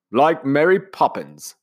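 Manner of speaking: pleased to recognise it; pleased commander. Acted. Commander to Nanny, slow and pleased.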